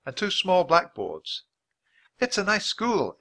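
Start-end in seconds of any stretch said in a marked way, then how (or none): 2.2-3.2 higher-pitched, politely voiced girl. A narrator's reading. Annie being polite to the teacher, politely. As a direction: offer a courteous compliment. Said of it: "Annie said politely".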